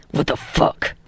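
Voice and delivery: low breathy disbelief; gruff rasping voice. Acted. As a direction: growl it in disbelief. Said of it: "Katsuki says".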